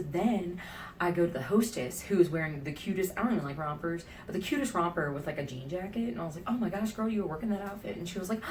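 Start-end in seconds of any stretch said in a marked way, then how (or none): 6.5-8.0 put-on higher-pitched, girly gush; lightly acted admiring gush; gushing compliment. Customer complimenting the hostess on her romper, gushing.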